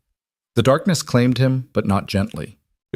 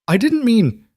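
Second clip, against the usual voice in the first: high, loud panicked cry breaking off; shouted; 14 semitones higher, 4 dB louder than usual. A narrator's reading. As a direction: shout it in horror, cut off at "mean". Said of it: "the man shouted".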